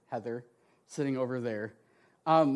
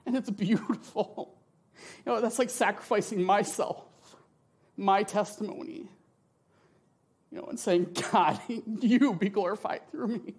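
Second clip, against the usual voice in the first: high, tearful with a teary laugh; crying through a laugh; 3 semitones higher than usual. Real, not acted. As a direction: laugh through real tears. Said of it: "Sorry, I'm crying".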